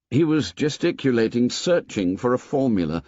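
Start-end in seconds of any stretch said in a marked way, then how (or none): none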